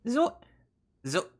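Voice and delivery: a light try at Shaggy with a voice crack. Retold or imitated. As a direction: reach up for a cracking Shaggy squeak. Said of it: "I got the voice crack".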